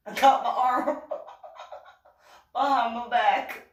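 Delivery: high, loud cover-up through giggles; evasive blurting. Retold or imitated. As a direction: act a guilty, obvious excuse. Evasive answer, laughing as she retells.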